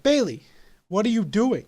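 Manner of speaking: a friend bursting in, puzzled and alarmed; startled call. Retold or imitated. Friend finds him smashing basement walls, surprised call.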